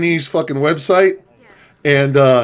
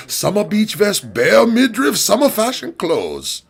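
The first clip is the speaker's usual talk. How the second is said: AliExpress operator in broken English; 4 semitones higher than usual. Retold or imitated. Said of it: "my impression of the operator".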